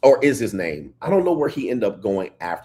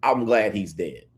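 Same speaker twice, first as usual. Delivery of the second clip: unbothered, slower imitation; uncaring; slower than usual. Imagined widow glad her husband is dead, uncaring. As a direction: say it with no care at all. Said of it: "like she didn't give a fuck".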